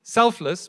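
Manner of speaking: selfless stretched slow and leaned on; stress on selfless. Shown as a demonstration. Preacher naming the word he emphasizes, slow stress. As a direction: draw out selfless. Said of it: "emphasize the word selfless".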